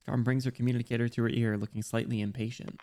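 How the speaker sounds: lightly voiced game dialogue, read aloud; reading a character's lines to chat; voicing story characters. Streamer reading the event story aloud, lightly acted.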